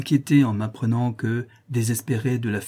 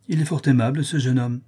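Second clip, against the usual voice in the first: raised, lightly exclaimed admiration; a touch of enthusiasm; exclaimed praise; 2 semitones higher than usual. Acted. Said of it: "s'écria la comtesse".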